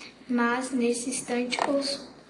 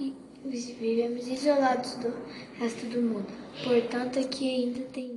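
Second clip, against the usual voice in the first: ordinary delivery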